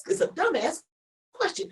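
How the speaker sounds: high incredulous inner voice; mock exasperated. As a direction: sound fed up and baffled. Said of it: "And I was like".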